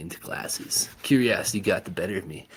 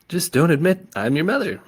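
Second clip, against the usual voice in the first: mom retort; 10 semitones higher, 7 dB louder than usual. A narrator's reading.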